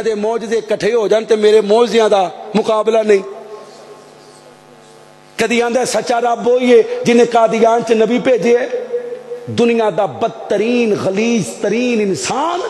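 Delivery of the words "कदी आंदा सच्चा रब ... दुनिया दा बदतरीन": ordinary talk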